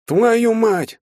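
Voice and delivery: high, loud astonished curse blurted out; stunned curse. A narrator's reading. Shtalin, staring at the ant circle, curses in shock. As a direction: gasp it out in disbelief. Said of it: "только и смог вымолвить Шталин".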